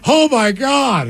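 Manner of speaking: high, slow laughing gasp; laughing so hard she cries; laughing through it. Retold or imitated. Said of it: "she's like".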